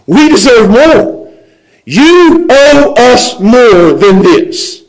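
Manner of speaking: slow, drawn-out grievance; mock-aggrieved, very slow demand; indignant complaint. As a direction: stretch each word in protest. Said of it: "that's the word complaint".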